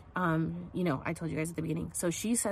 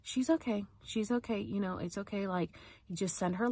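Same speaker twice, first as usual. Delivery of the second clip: gentle mock reassurance, pitched up; imitated self-soothing; 2 semitones higher, 3 dB quieter than usual. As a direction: retell her reassuring herself. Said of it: "trying to calm herself down".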